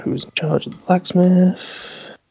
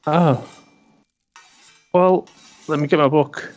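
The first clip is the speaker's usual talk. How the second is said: gnome shopkeeper; 4 semitones higher than usual. Acted.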